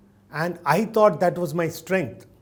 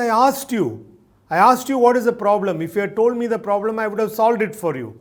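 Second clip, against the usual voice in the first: higher, mildly exasperated retort; lightly acted frustrated husband defending himself; 3 semitones higher, faster than usual. Husband defends himself to his crying wife, mildly exasperated.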